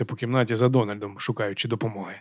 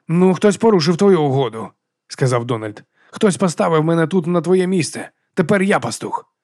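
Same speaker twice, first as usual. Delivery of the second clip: defiant; 5 semitones higher, 3 dB louder than usual. Acted. Donald asserts power.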